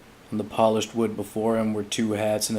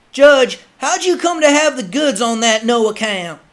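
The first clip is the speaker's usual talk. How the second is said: rough frontiersman; 12 dB louder than usual. Acted. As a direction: ask eagerly in a rough voice. Man asking the judge.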